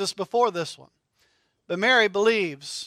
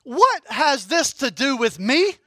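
sassy back talk; 4 semitones higher, 4 dB louder than usual. Pretend. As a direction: cry Woman up high, then drag out the rest. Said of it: "if you talk back to your mom".

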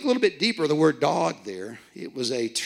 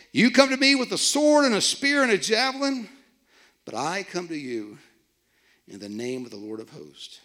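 preaching scripture. Acted. Preacher reads scripture with force.

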